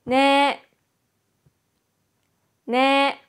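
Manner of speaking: ね held long on a level pitch, tongue on upper teeth; pronunciation model. Shown as a demonstration. Teacher models ね for learners to repeat, pronunciation model. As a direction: say ね as one clear, sustained syllable. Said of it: "舌は上の歯につけて発音します".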